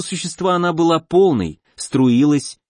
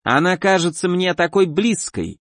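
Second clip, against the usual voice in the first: slow, higher, cloying and wet; sickly sweet slimy monster; squelching flesh creature; 4 semitones higher than usual. Acted. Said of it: "приторно чавкало существо".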